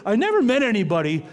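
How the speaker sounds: quoting the wife through a laugh; amused, laughing imitation of the wife; laughing quote. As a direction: tease yourself with a chuckle. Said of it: "Tricia always says".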